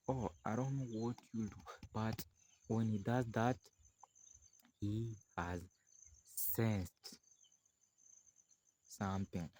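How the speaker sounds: hushed warning. Acted. Lady warns quietly.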